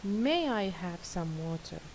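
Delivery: a gentle, courteous ask; most polite. Shown as a demonstration. Teacher modelling the politest way to ask for water, gentle and courteous. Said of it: "The most polite one is".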